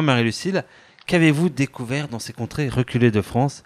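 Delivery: lightly pompous reporter intro; playful presenter voice introducing adventurers; mock news presenter. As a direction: present the guests like a spoof TV report.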